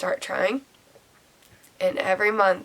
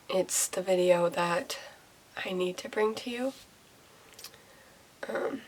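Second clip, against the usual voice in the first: holding back tears; 6 dB quieter than usual. Real, not acted. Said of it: "I didn't think I'd cry right away".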